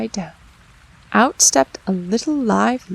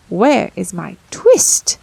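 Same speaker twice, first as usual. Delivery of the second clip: slow, louder insistent question; tailor asking again; 6 dB louder, slower than usual. Acted. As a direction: press the cat for an answer.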